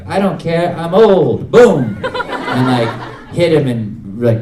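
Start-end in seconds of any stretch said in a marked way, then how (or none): 0.1-2.0 lightly voiced, defiant old lady; careless old lady. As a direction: play a brazen old lady, punching the last word. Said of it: "this old lady was like".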